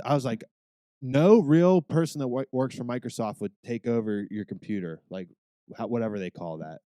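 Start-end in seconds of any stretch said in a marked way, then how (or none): 1.0-5.0 louder, heated retelling of chewing out a scammer; mock-heated rant at a fake tech-support caller; retold telling-off. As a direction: lay into the scammer, loud and fired up. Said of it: "just started ripping this guy a new one".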